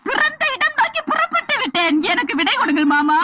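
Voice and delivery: mock formal lament. Mock formal plea to father-in-law.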